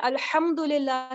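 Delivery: अल्हम्दुलिल्लाह started with a clear "al"; अल्हम्दुलिल्लाह opened on a short "a" vowel; fatha on the alif. Shown as a demonstration. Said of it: "मैं इसके ऊपर फतहा डाल दूंगी".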